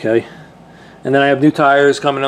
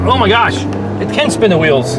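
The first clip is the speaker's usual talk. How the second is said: surprised; 3 semitones higher, 3 dB louder than usual. Real, not acted. Wheels spin on test launch.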